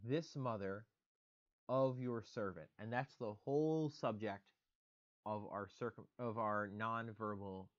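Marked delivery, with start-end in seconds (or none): 0.1-2.7 slow reading. Shown as a demonstration. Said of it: "use the construct".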